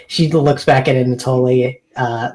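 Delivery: normal talking voice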